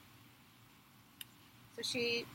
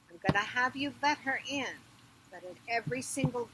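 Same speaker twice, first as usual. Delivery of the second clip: loud, higher royal order; commanding queen; 4 semitones higher, 5 dB louder than usual. Acted. Ereshkigal orders Bidu at the gates, loud command. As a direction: command the servant forcefully. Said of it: "slapped her leg and said".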